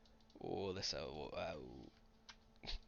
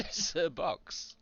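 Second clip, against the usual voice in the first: laughing; 8 semitones higher, slower than usual. Acted. Laughing in high voice.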